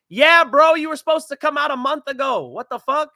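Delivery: loud, high, fed-up call-out; exasperated shout. Real, not acted. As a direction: yell at him for showing up late. Scolding the fighter's late arrival.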